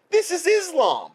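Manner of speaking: high, loud outburst; angry shout. Real, not acted. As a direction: hurl it out in anger. Angry climax of rant.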